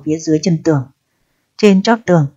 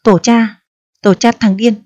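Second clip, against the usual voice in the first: higher mock curse echoing the guard; 4 semitones higher than usual. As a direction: parrot the curse back to mock him. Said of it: "chửi giả".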